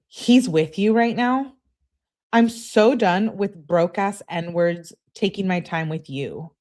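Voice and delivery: put-on slow, whiny girlfriend rant. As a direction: drag it out in a whiny voice. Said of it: "that's a great whiny voice".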